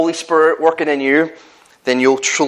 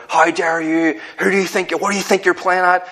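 imagined stern cop; 6 semitones higher than usual. Retold or imitated. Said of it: "I was expecting him".

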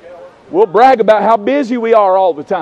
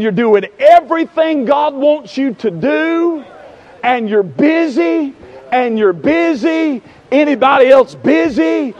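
rolling pulpit cadence, stretched key words; rhythmic preaching; 4 semitones higher, 3 dB louder than usual. Real, not acted. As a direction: press each point on the congregation.

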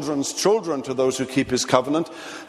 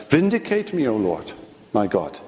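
a mild pleading cry, dropping low at the end; pleading prayer; 4 semitones lower than usual. Pretend. Innocent victim begging God for justice, mild pleading. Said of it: "you come before God and you say".

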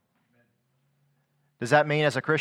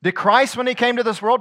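ordinary delivery

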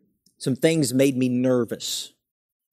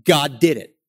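higher, rising questions building to a firm close; preacher's eager questions; 6 semitones higher than usual. Retold or imitated. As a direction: press the listeners like the writer of Hebrews. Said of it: "he's saying".

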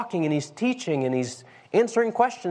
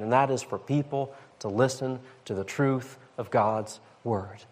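gentle rebuke; 4 semitones lower than usual. Retold or imitated. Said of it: "but it's in a very gentle way".

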